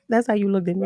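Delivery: normal talking voice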